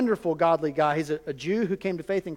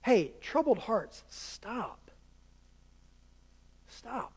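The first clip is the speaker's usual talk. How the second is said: much softer, nearly breathed, slow; calm the frightened room with a hush; soothing Jesus; 3 semitones higher, 7 dB quieter, much slower than usual. Retold or imitated. Jesus calming his troubled disciples, hushed. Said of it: "And he tells them".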